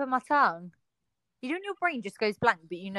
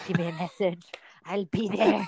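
deadpan threat; 5 semitones lower than usual. Retold or imitated. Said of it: "It's like in Taken".

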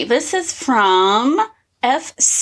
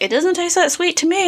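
imitating husband; 8 semitones higher than usual. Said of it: "He's like".

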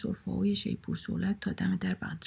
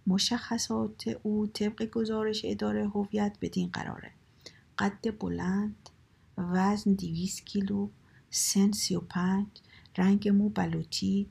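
slow, measured police circular; formal telegram announcement, deliberately paced; official bulletin reading; slower than usual. Acted. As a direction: read out a wanted notice, item by item.

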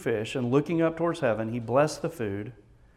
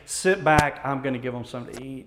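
casual. Retold or imitated. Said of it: "He doesn't say".

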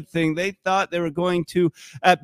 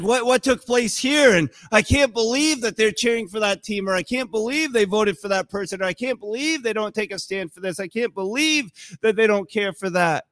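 acted indignation; 4 semitones higher than usual. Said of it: "it becomes where we're so angry".

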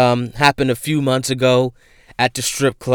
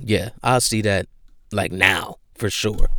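ordinary delivery

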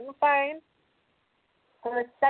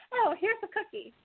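sweet grandma; 8 semitones higher than usual. Retold or imitated. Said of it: "the next best goes".

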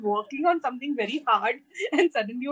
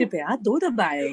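lightly put-on telephone menu voice; auto-dialer prompt; 2 semitones lower than usual. Shown as a demonstration. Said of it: "these are the little prompts that you hear".

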